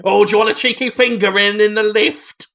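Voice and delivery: lightly put-on cheeky lecher; mock saucy chat-up; mucky sitcom man. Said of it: "that mucky one would come on and go".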